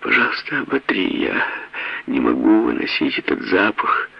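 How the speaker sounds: high, tearful begging; sobbing plea. Acted. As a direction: plead through sobs. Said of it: "Теперь она уже плакала навзрыд".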